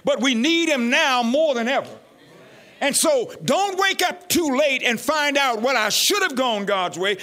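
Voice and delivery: emphatic preacher, stretched key words; fervent preaching. Real, not acted. Preacher urging the congregation not to wake up too late, fervent preaching. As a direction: press the point home with stretched stresses.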